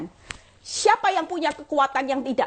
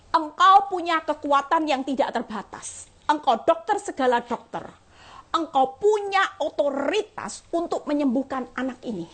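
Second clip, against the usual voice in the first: fervent prayer. Retold or imitated. Preacher reenacting her prayer at the hospital bed. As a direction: pray with conviction. Praying over the sick child.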